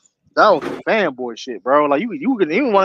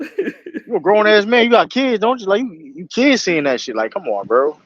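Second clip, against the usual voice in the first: mocking coach scolding; 3 semitones higher than usual. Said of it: "I'll be that type of coach".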